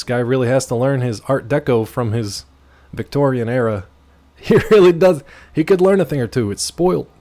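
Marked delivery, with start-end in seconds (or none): 4.4-7.1 snooty reviewer. Pretend.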